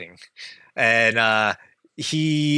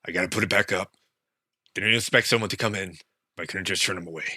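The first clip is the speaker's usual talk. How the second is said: lower, softer fumbling innkeeper; nervous Goron; 4 semitones lower, 3 dB quieter, faster than usual. Acted. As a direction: cover up nervously. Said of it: "He's like".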